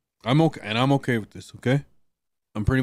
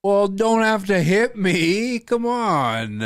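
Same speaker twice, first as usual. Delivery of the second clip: startled protest; 10 semitones higher, 7 dB louder, slower than usual. Real, not acted. Just got hit, protests.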